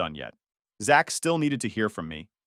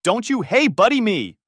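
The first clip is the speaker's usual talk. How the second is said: much higher, louder furious yell; shouting; 10 semitones higher, 7 dB louder than usual. Retold or imitated. Son shouting at his ex-friend at the door, furious. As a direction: throw hey buddy back in his face. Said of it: "I shouted".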